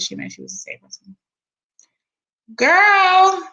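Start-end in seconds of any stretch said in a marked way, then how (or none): 2.5-3.4 excited exclaim. Real, not acted. Reacting to shocking lawsuit detail.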